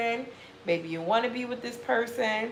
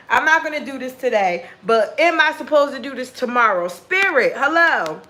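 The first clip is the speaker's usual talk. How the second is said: exasperated; 2 semitones higher, 6 dB louder than usual. Pretend. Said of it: "you're telling yourself".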